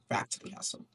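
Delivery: whisper. Acted. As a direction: whisper it like a secret. Soldier's aside, whispered.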